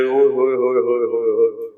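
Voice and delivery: quick, rolling cry of wonder; amazed exclamation. Retold or imitated. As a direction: gush with delight at the sight. Companion marvels at playful ride. (تیز حیرت بھری داد)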